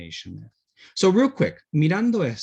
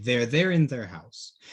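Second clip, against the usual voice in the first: slow model sentence; 3 semitones lower, slower than usual. Shown as a demonstration. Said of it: "se entiende por el contexto".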